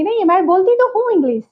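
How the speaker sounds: mildly irritated, weight on तो; irritated insistence. Shown as a demonstration. Answering the repeated doubt, mildly irritated. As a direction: push back with a touch of annoyance. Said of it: "तो आप irritate होके बोलेंगे".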